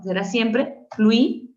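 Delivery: fluido said slowly as the right form; slow, careful fluido; deliberate teacher's model; slow correct form. Shown as a demonstration. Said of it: "no puedes decir fluí".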